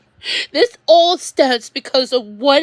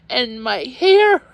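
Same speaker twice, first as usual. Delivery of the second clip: tearful; slower than usual. Real, not acted. Venting tearfully about her troubles.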